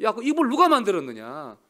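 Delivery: loud mock-angry divine rebuke; angry God. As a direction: scold like an angry master. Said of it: "하나님 화가 났어요".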